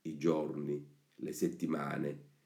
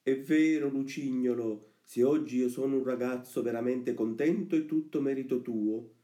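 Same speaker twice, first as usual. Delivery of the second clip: put-on high, eager puppet-boy voice; Pinocchio; 6 semitones higher than usual. Pinocchio thanking his friend for his happiness, eager agreement. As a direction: agree keenly in a raised young voice.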